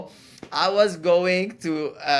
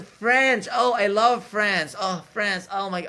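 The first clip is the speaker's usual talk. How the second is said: higher mock delight; imitated gushing; 5 semitones higher, 3 dB louder, slower than usual. Older man in church line guessing he is French, mock gushing. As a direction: gush like an overexcited stranger.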